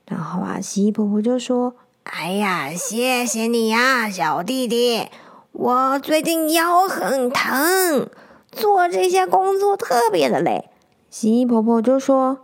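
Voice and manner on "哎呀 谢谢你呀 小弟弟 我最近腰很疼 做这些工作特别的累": slow tired grandma voice, sighing; a hint of a worn-out granny lizard; weary old granny. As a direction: complain about her aching back. Grandma complains of backache.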